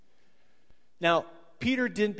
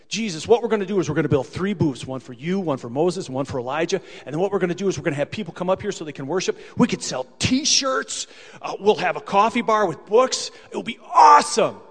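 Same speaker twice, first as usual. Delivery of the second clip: eager pitch; 6 dB louder than usual. Acted. Peter pitches his great idea.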